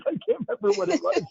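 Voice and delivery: high, laughing through the words; helpless high-pitched laughter in the voice. Real, not acted. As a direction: break up laughing while talking. Laughs at own failed memory.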